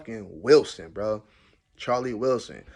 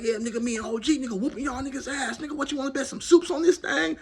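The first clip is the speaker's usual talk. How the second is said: high, hyped-up trash talk; talking big shit at the card table; animated trash talk; 11 semitones higher, faster than usual. Retold or imitated. Boasting to the other spades players, animated and high. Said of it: "I'm animated, bro, I'm talking big shit".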